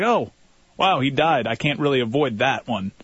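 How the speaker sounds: a hint of a shrugging street dealer; lightly voiced dealer, matter of fact; pragmatic drug dealer voice. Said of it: "A really pragmatic drug dealer voice".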